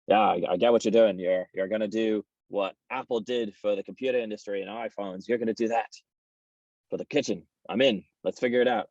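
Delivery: put-on terrible, lightly done Irish accent; a weak imitation of an Irish accent; the speaker's Irish accent. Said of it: "so I'm gonna do a terrible Irish accent".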